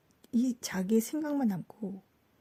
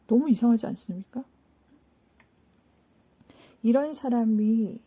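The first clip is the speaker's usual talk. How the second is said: ordinary delivery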